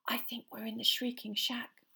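scared unvoiced whisper. A narrator's reading. Hermione telling Harry where they are, frightened whisper. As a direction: whisper it so no one hears. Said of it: "she whispered".

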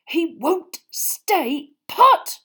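high, slow, breathy whisper; frantic whisper. Acted. Ron whispering to Hermione, panicked.

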